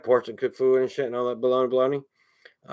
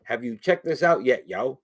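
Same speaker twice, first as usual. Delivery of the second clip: slower, more measured question in a usual pitch; talking slower. Shown as a demonstration. Host repeating his question to viewers, talking slower. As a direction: ease off and space the words out. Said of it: "I need to talk slower".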